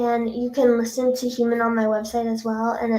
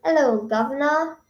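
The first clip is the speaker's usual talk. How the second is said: hammed-up fake British greeting; clumsy British accent sliding toward Irish; terrible British accent. Shown as a demonstration. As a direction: attempt a bad British accent. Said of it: "I have a terrible British accent".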